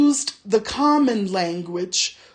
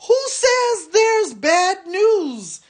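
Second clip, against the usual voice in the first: orc shout; 10 semitones higher, slower than usual. A narrator's reading. Soldier orc shouting at the gossiping tracker. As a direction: bellow the challenge at him. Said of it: "shouted the soldier".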